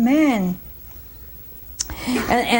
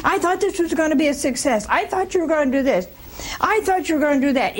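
fast, higher nagging complaint; a light mock of a nagging wife; nagging wife complaining to her husband, fast and high; nagging spouse; 6 semitones higher, faster than usual. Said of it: "who keeps nagging all the time".

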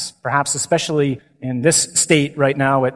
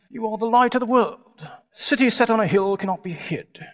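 stuffy, softer British stage English; Shakespearean accent; 6 semitones higher, 4 dB quieter than usual. Retold or imitated. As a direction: do a rather stuffy English film Jesus. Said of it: "with a Shakespearean accent".

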